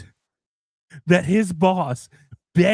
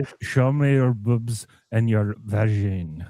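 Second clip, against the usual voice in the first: mock begging boss; 8 semitones lower than usual. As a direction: plead like a lecherous boss.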